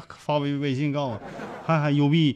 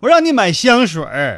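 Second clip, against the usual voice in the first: put-on louder scolding girlfriend line; mock scold; 4 semitones higher, 6 dB louder than usual. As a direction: snap it at him half in jest. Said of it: "这差一个字儿可差老了".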